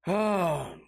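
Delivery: ordinary delivery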